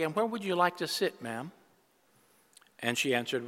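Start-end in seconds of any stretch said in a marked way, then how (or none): 0.0-1.5 a touch of soft courtesy, softer; polite usher. Acted. Usher greeting an elderly woman at church, softly polite. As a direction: gently offer the lady a seat. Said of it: "asks politely".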